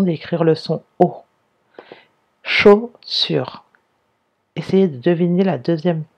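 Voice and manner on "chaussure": "Chaussure" in two beats, CHAU then SURE; higher, louder "Chaussure", broken after the first syllable; split into syllables. Shown as a demonstration. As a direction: sound out "Chaussure" with a gap after a high, loud CHAU. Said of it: "c'est dans la première syllabe".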